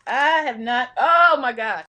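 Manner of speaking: loud, overcome outcry; about to cry. Real, not acted. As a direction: cry out, fighting real tears. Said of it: "I'm gonna cry for real".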